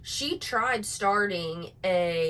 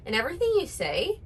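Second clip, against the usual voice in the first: mock influencer uptalk. Shown as a demonstration. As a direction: parody of influencer uptalk on "everything you say has a question". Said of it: "No, I did that wrong".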